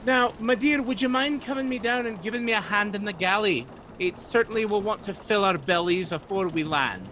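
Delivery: put-on bustle like an old galley cook calling for help; old ship's cook. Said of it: "And Missus Spindlecut says".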